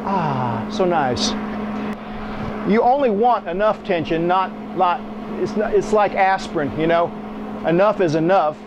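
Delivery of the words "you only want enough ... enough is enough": ordinary talk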